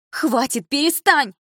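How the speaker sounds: loud, very high cry; shrieking stop. A narrator's reading. Mother yelling at her daughter to stop.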